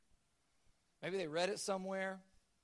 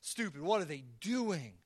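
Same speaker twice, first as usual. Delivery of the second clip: exasperated God; 4 semitones lower than usual. Retold or imitated. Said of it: "he's like".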